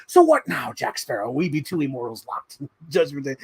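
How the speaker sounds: hammed-up movie face-off, breaking into a laugh; mock dramatic challenge. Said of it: "lock eyes and go like".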